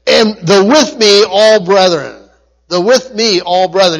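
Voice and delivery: "with me" set apart and weighted; stress on with me. Shown as a demonstration. Preacher quoting the Greek to the congregation, stressing "with me". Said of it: "The emphasis is on with me".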